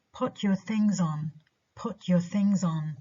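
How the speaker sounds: "things" stressed, final "on" left unstressed; stressed object. Shown as a demonstration. Teacher modelling a final adverb, "things" stressed over "on". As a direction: stress "things" and let "on" fall away. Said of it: "adverbs in final position when preceded by a stressed".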